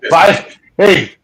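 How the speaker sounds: loud, high, hearty send-off; shouted farewell. Retold or imitated. Investigator calling goodbye to friends driving off, shouted farewell. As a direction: call it out to departing friends.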